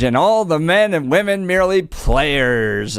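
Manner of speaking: slow, grand theatrical reading; dramatic recitation. Acted. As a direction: recite it like a stage actor. Host recites Shakespeare dramatically.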